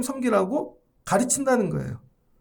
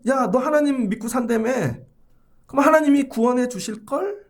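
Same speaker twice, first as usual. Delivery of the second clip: higher-pitched mock taunt; 3 semitones higher than usual. Mockers taunting David for his faith, mocking. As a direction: tease the believer with fake assurance. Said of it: "다 비웃고 있는 거죠".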